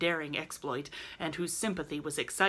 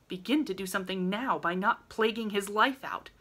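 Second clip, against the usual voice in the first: sharp; 4 semitones higher than usual. Acted. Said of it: "said Meg sharply".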